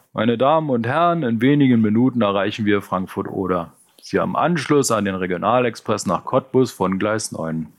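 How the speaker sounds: a light train announcement voice; conductor announcement. Acted. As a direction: read it like a loudspeaker. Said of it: "die Durchsage des Schaffners".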